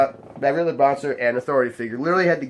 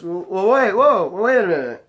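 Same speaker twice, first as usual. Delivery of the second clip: tag; 5 semitones higher, 4 dB louder than usual. Retold or imitated. Drunk guy protests being thrown out.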